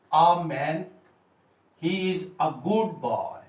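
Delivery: put-on slow "a man", "a good boy", a said as आ; drawn-out model reading, "a" sounded aa; article A as AA. Shown as a demonstration. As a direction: say each "a" as आ, slowly. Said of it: "इसकी pronunciation आ होगी".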